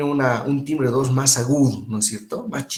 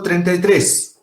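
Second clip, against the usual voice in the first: loud and clear; 4 semitones higher, 4 dB louder, slower than usual. Shown as a demonstration. Teacher demoing for students a loud, clear count. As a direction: call out treinta y tres loudly. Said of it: "digan fuerte y claro".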